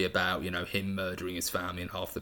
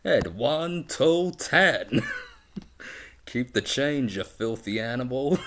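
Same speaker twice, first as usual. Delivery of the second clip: higher-pitched, hammed-up movie tough guy; put-on threatening film-villain voice; movie gangster quote; 5 semitones higher than usual. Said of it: "I find myself quoting bits of it".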